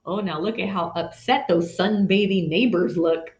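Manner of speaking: little gasp then a hushed aside; gasp of surprise. Real, not acted. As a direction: react to the picture with a gasp.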